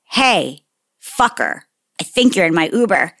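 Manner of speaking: measured, with pauses and a falling end; retold controlled irritation; pointed second warning. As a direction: confront someone who ignored you. Second, ruder attempt after being ignored.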